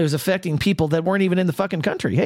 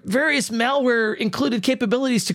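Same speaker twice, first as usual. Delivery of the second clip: news read; 2 semitones higher than usual. Acted. Reads news headline aloud.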